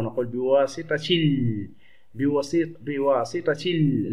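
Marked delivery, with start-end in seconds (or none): 0.3-1.7 بواسطة ال joined as bi-waasitati-l, slowly, L held; linked, hamza dropped. Shown as a demonstration. Teacher showing what is not read, بواسطة ال slowly linked. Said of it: "لا نقرأ". 2.8-4.1 بواسطة ال slowly as bi-waasitati-l, L drawn out; linked, hamza dropped. Shown as a demonstration. Teacher repeating for pupils, بواسطة ال slowly linked without hamza. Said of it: "لا ننطقها".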